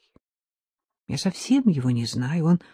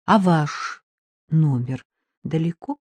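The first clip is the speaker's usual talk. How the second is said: ordinary delivery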